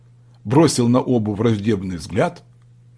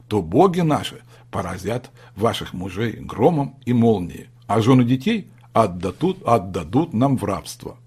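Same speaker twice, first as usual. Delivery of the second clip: slow solemn voice. A narrator's reading. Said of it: "заговорил медленным, торжественным голосом".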